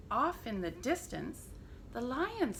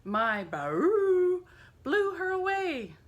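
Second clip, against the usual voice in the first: loud, higher shout; 11 semitones higher, 8 dB louder, slower than usual. A narrator's reading. Elephant shouting his boast, loud and high. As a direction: trumpet it out. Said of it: "shouted the elephant".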